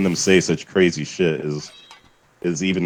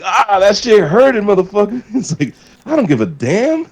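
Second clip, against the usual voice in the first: cartoon character voice; 14 semitones higher, 4 dB louder than usual. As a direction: squeal it like a silly dubbed cartoon. Retelling the dubbed cartoon dialogue.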